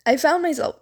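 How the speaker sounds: burp while talking; words interrupted by a burp. Real, not acted. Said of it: "sorry, I'm burping".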